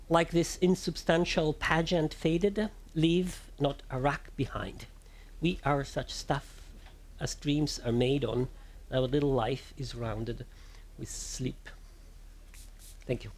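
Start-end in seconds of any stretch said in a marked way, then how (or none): 0.1-11.7 slow, solemn verse reading, fading away; poetry recitation. Acted. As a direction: let the last line fade into sleep. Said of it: "pardon my horrible Italian accent and Italian reading".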